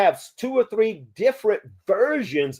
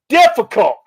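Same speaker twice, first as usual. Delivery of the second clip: laughing; 9 semitones higher, 5 dB louder than usual. Real, not acted. Laughs at Costa Rica hassles.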